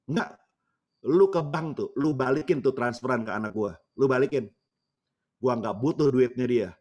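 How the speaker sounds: imitated old woman's emphatic protest; acted cross insistence; indignant granny. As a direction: push each refusal out firmly, as a hurt grandmother. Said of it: "agak-agak marah begitu, seperti orang marah".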